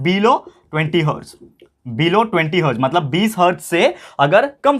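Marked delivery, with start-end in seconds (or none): 0.0-1.3 each word drawn out slowly for notes; spelling it out for the class, very slow; slow dictation. Shown as a demonstration. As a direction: dictate it slowly so they can write. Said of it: "तो इसका कितना होता है?".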